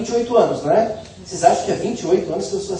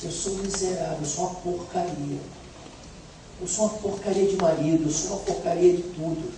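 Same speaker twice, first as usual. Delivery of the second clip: quiet confession; 7 dB quieter than usual. Retold or imitated. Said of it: "Eu fui dizendo".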